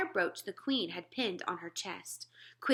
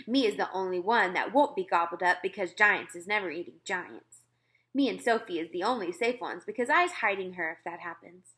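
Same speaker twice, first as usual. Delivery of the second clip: grinning giant; 4 dB louder than usual. Acted. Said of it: "grinning hugely".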